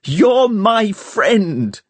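high, slow shout; boy shouting his loyalty at the girl. A narrator's reading. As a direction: draw out each word pleading. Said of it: "he shouted".

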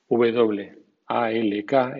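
"walk" sin L, como wok; English "walk". Shown as a demonstration. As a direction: say "walk" as wak with no L. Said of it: "es walk". (di "walk" sin la L)

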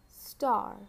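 each word slow and crisply spoken; dictating. Shown as a demonstration. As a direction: say it clearly for children to write. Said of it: "I will repeat each word two times".

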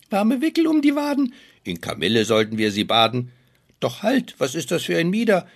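high, loud frantic dwarf cries; panicked dwarfs. Acted. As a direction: panic over the fallen girl. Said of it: "in ihrer großen Not".

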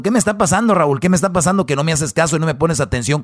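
hammed-up scolding wife, half-sung; a lightly voiced angry wife berating Raúl; mock angry wife. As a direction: play the furious wife ranting at her husband. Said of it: "Imagínense esa mujer fuera así".

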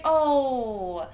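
high, laughing mock fluster; flustered dad. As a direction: stammer like a dad caught off guard.

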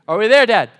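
mock a whiny child calling out to Dad; impatient child. Three-year-old asks Dad on the drive, loud and impatient.

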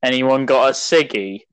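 lightly voiced chav; a hint of a put-on London chav. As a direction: toss it off as a mock chav. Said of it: "speak like a chav".

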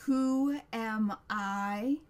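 loud, hugely drawn-out monster challenge. A narrator's reading. Monster growing before Connor's eyes, booming slow challenge. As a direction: boom it out, stretching every word. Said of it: "its voice getting louder".

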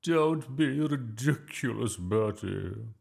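slow, high, loud indignation; agitated scolding. A narrator's reading. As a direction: scold the boy in a strained old-battleaxe voice. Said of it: "Miss Boot began to shake".

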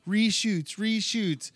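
high-pitched fretting; mock panic. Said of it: "freaking out".

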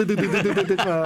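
rattling string of repeated syllables, laughing; imitated key-mashing noise. Joking to co-host about someone asleep on the keyboard, mimicked typing noise. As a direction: mimic keys typing away by themselves.

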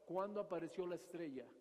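hushed calculating Herod questioning the magi; scheming Herod. Retold or imitated. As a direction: quietly plot and probe for the date. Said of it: "piensa lo que está él maquinando".

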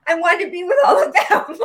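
laughing through real emotion; tearful laugh. Real, not acted. Guest retells leaving her class, laughing through tears.

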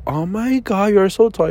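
mock-gushing girl, lifted "Oh my God". Man retelling a girl's compliment, light mock gush. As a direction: quote her surprised compliment lightly. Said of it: "Y luego de que".

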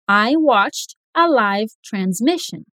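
slow, live with a long i; I watched a live transmission, live like five; slow model sentence. Shown as a demonstration. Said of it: "vai ficar".

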